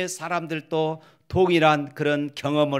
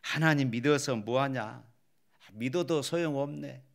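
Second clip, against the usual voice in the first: discouraged doubter; 2 semitones lower, 5 dB quieter than usual. Acted. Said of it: "어떤 사람들은 이렇게 말합니다".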